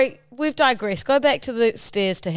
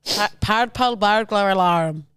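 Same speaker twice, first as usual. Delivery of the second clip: slow amateur Scottish; put-on accent; 3 semitones lower than usual. Podcaster trying the tongue twister, slow bad Scottish. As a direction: labour through it in bad Scottish. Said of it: "I'm putting on an accent".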